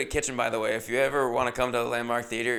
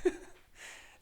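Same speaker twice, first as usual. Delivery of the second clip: louder, higher laughing backpedal; nervous laugh; 9 semitones higher, 6 dB louder than usual. Retold or imitated. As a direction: laugh it off fast. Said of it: "I had to be like".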